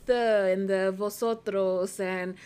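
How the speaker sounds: slow mock Castilian Spanish sounds; Castilian Spanish accent. Mocking the Spanish associated with España, Castilian accent. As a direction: exaggerate the Castilian lisp and vosotros. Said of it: "The right way is the Castilian Spanish".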